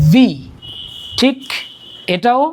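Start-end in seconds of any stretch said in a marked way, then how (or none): 0.1-0.3 ভি as a clear v; teeth on lip. Shown as a demonstration. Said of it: "দাঁতগুলো আমাদের এই ঠোঁটে লাগিয়ে".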